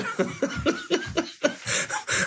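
breathless high giggling; real giggle; high airy laughter. Real, not acted. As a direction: laugh without voice. Laughing again.

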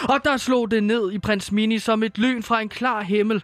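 gentle fairy-tale narration. Acted. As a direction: read it like a bedtime Christmas tale. Reads Christmas story aloud. (blød hyggelig julefortælling)

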